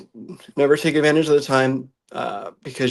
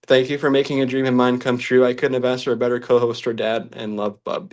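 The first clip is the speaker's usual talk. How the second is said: reading through real tears; choked-up letter to dad; ugly crying. Real, not acted. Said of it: "I'm ugly crying".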